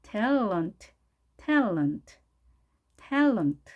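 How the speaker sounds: "탤런트" as TAL-unt with held L; stressed open first syllable in "탤런트", weak ending; English pronunciation demo. Shown as a demonstration. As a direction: model "탤런트" as English talent. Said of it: "L 발음이니까 tell 해주시고".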